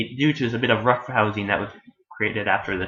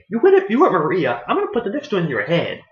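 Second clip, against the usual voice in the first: raised, heated warning; mock threat; 7 semitones higher, 4 dB louder than usual. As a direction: threaten him, retelling with gusto. Acts Joseph threatening the archangel.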